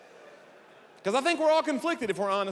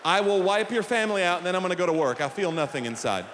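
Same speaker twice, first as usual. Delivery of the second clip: loud, menacing chicken threatening a family; mock villain chicken, shouted; murderous chicken; 7 dB louder than usual. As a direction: bark it like a psychopath hen. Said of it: "It's like saying the chicken".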